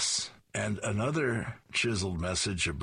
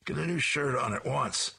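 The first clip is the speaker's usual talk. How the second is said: mild shout; 6 semitones higher than usual. A narrator's reading. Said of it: "Sarge looks at Beetle and shouts".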